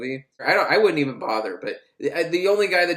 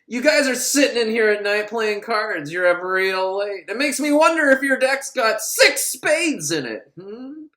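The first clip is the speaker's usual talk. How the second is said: higher, louder mock tough guard; menacing guard Muncie; 7 semitones higher, 3 dB louder than usual. Guard Muncie grilling inmates over cards, hammed-up menace. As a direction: lean in like a suspicious bully guard. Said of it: "Muncie comes in, and he's like".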